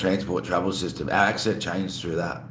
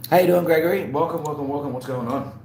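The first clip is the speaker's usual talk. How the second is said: excited greeting; 6 semitones higher than usual. Real, not acted. Greeting a new viewer.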